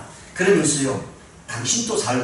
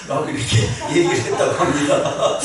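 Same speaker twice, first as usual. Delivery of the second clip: talking through laughter; laughing; 3 semitones higher, 4 dB louder than usual. Real, not acted. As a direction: crack up at your own punchline while finishing it. Laughing at his own punchline. (웃음 섞인 말투로)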